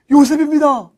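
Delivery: high, ringing declaration; acted big reveal; dramatic revelation. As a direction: proclaim your identity to stunned brothers. Joseph reveals his identity.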